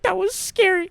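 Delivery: high, whimpery retelling; mock tearful fright. Admitting fright to companion after falling, high mock-tearful voice. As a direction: imitate a small shaken admission. Retold near-tears after fall.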